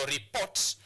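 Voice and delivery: "report" with the weight on PORT; stress on second syllable. Shown as a demonstration. Teacher showing where the stress mark goes, stressing PORT in "report". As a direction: hit PORT in "report", ending on a rise. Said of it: "place your stress mark on the second syllable".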